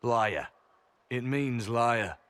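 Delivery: flat, pointed, slow on "It means liar"; blunt put-down. Acted. Spy bluntly translating his title to the Inquisitor. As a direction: drop the word like a verdict. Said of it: "you don't have to say it like that".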